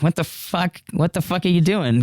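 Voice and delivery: incredulous. Retold or imitated. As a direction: retell it in dumbfounded disbelief. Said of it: "incredulous, without words, just dumbfounded".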